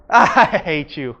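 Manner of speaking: I hate you, low and drawn out; low and slow. Shown as a demonstration. Demo to the class, same words slow and low. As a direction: say it slow, almost joking. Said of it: "your words do not really matter".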